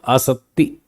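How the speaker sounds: आसक्ति said carefully with doubled t and no k. Shown as a demonstration. Teacher naming the term, carefully doubling the t. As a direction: separate the last syllable of आसक्ति on a double t. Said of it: "तो double".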